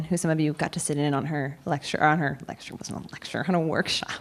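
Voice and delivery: hoarse, losing voice. Real, not acted. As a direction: speak with a voice that's giving out. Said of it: "I'm obviously losing my voice as well".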